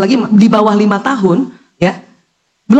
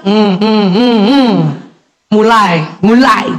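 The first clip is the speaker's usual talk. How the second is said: low disapproving hums then grumble; grumbling mother; 3 semitones lower, much slower than usual. Retold or imitated. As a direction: hum your annoyance at the kid. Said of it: "Jangan kita bilang". (ibu menggerutu dengan dengungan kesal)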